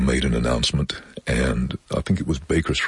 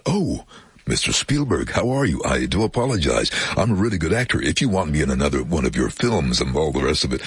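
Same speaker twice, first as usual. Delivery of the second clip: eager, grovelling flattery; fawning, flustered; 2 semitones higher than usual. Retold or imitated. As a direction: suck up nervously. Grovelling to Spielberg.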